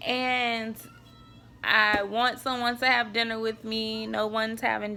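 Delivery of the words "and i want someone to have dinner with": fighting back tears while pleading, pitch up; close to tears. Real, not acted. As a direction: voice lifting high as tears press in. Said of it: "trying not to cry".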